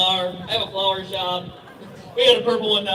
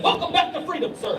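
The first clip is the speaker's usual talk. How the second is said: higher, chuckling through the welcome; laughing officer; 7 semitones higher than usual. Retold or imitated. US border agent greeting gun dealer home, laughing. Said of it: "He said".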